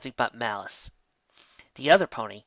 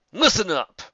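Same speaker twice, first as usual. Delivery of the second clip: loud, higher command; calling out; 8 semitones higher, 8 dB louder than usual. A narrator's reading. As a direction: bark it to the group. Villain calling out.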